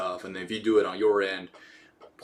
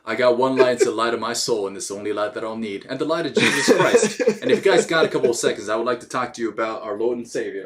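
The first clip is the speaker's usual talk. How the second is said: hammed-up evangelist, building louder; preacher voice; 3 dB louder than usual. Mock preacher about Jesus.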